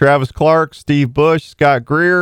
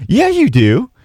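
high-pitched mock wife's retort; playful high-voiced contradiction, imitating a wife; 11 semitones higher, slower than usual. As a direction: quote the wife back in a raised pitch. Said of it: "She goes".

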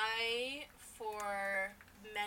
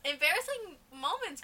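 higher, louder segment announcement; announcer voice; 7 semitones higher, 5 dB louder than usual. Pretend.

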